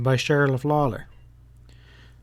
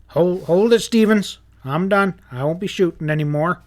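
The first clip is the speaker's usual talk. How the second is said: panicked surrender; 5 semitones higher, 4 dB louder than usual. Acted.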